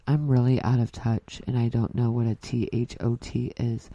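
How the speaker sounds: a hint of a calm public-radio host; mock radio-host read, measured and even; NPR voice. Mom mocks herself as an out-of-touch radio host. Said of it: "in my N P R voice".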